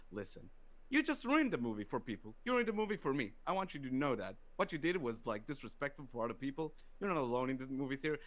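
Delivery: a hint of a stern father lecturing; retold dad speech. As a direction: scold them like a disappointed dad, lightly. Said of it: "You gave them the dad speech?".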